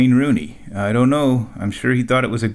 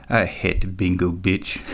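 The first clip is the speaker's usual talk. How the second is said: lightly imitated accent of Tenzin, low and muted; Tenzin's accent; 4 semitones lower, 4 dB quieter than usual. Coworker confides in narrator after hostess leaves, lightly accented Tenzin impression. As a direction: quote Tenzin's accent in a lower voice. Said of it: "in his crazy accent".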